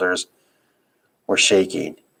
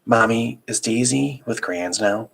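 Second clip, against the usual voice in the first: put-on small child voice; 4 semitones higher than usual. Child voice in story.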